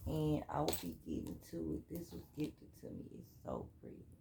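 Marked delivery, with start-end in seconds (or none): 1.9-4.1 whispered aside. Real, not acted. Admiring a gift aside.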